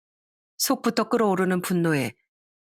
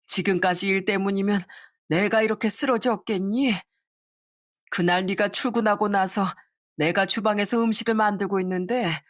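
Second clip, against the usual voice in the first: mother's voice; 2 semitones higher than usual. Acted. Mother recounting the theft to her son, lightly aggrieved. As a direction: tell it like a hurt old mother.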